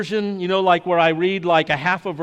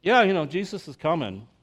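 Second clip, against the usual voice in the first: bored shrug. Retold or imitated. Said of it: "and we're like".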